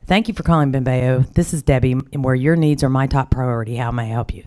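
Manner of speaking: a hint of a polite receptionist's phone greeting; lightly voiced courteous phone answer; phone greeting script. Staff answering calls at a hospice company, lightly courteous. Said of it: "this is what I want you to say".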